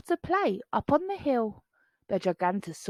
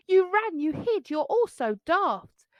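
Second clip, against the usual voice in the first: teasing; 8 semitones higher than usual. A narrator's reading. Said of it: "Bonehead laughed".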